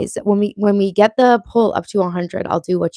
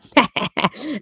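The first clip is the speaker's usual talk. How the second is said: laugh; 2 semitones higher, 3 dB quieter than usual. Real, not acted. Laughs after teasing chat.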